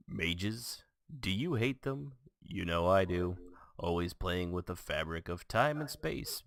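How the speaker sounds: dramatic commercial announcer. Acted. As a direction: sell it like a fantasy ad. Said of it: "that was our announcer guy".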